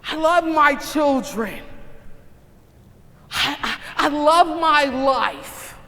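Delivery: loud, high mock gushing; big, high-pitched professing of love; gushing declaration. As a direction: proclaim love in a showy, hammed-up way. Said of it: "We so often sin and say".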